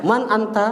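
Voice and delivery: "man anta" as two clear words, man held; correct intonation. Shown as a demonstration. Teacher showing the class the right intonation. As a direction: say "man anta" with man set apart from anta. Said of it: "gitu ya intonasinya".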